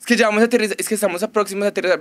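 mock pilot announcement.

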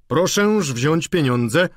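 put-on slow, grave old gentleman; slow grave old gentleman's voice; serious gentleman. A narrator's reading. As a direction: hand over the money gravely and slowly. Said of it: "poważny jegomość".

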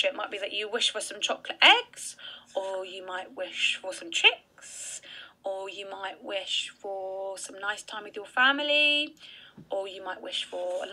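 hush, as if sharing a secret; whisper. Real, not acted. Teacher suggests Easter wishes to children, whispered.

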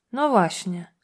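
plain reading voice

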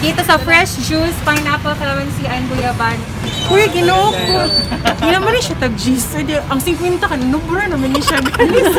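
speaking behind surgical mask; muffled by mask fabric; through a face mask. Real, not acted. Seen 4: Vlogger's surgical mask covers mouth and nose; R frames show it down.

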